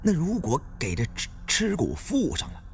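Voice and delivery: uneasy companion stuttering a scared question to Liang; nervous stammer. Acted. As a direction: stammer it out, rattled and worried. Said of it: "脸色有点难看，犯了嘀咕".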